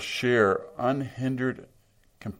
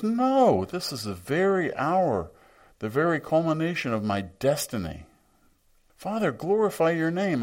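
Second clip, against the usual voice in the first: resolute Jesus; 8 semitones higher than usual. Retold or imitated. Jesus resolutely accepts his hour.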